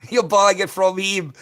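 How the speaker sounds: real scoffing laugh through the words; incredulous laugh. Real, not acted. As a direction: laugh at the absurdity of it, slowly. Ranting about carbon credits.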